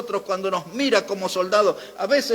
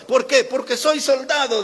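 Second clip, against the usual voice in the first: higher, punchy question and answer; emphatic; 5 semitones higher, 3 dB louder than usual. Retold or imitated. Preacher re-enacting a pastor's rhetorical question, emphatic. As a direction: imitate a preacher hammering "soy soldado". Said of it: "Y predicaba y enfatizaba en eso".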